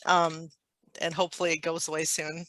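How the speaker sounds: talking with a tissue up the nose; nose plugged with tissue; tissue up one nostril. Real, not acted. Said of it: "tissue up my nose".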